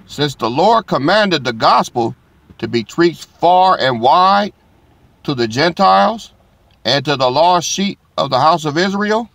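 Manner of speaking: preacher proclaiming scripture to the congregation; scripture reading. Acted. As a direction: lift the verse like a proclamation. Reads scripture aloud to congregation.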